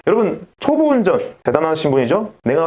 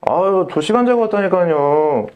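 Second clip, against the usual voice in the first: 투덜대는 학생; 4 semitones higher, slower than usual. Retold or imitated.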